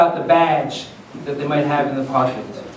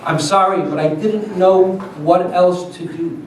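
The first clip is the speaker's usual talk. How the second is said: apologetic; 3 dB quieter than usual. Acted. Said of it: "The young boy was apologetic".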